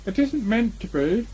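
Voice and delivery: high, slow disguised rabbit voice; different voice. Acted. Rabbit disguises his voice to fool Pooh, high and slow. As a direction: Rabbit pretends to be someone else. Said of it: "in a different sort of voice".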